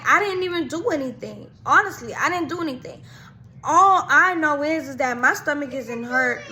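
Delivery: a hint of sobbing self-defence; retold crying. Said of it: "So I'm over here crying".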